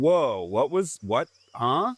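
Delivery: mock-stunned, drawn-out questioning; puzzled double take; baffled reaction. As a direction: act out a confused viewer, pitch jumping up. Acting out a baffled viewer.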